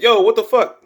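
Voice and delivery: high, startled cry; shocked yelp. Retold or imitated. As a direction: Snake kicked off the edge, high shocked yelp. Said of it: "He's like".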